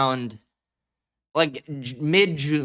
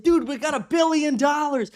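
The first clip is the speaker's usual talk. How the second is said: mock character voice; 9 semitones higher than usual. Quoting movie character.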